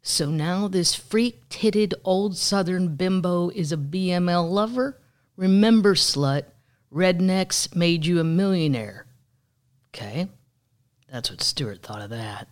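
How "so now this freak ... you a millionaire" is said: mock angry troll. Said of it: "he wrote".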